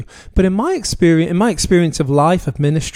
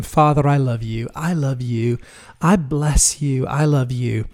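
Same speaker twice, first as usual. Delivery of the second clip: tender worship; 2 semitones lower than usual. Retold or imitated. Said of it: "it would behoove me more to go around saying".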